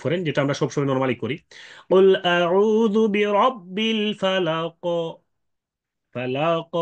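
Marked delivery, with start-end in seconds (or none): 1.9-4.8 slow, higher chant ending "ফালাক" on a vowelless qaf; sakin stop recitation. Shown as a demonstration. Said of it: "প্রথমটা হচ্ছে সাকিন". 6.1-6.7 "ফালাক" stopped on a bouncing q; sakin with qalqalah. Shown as a demonstration. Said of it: "কলকলার সাথে ওয়াকফ করলেন".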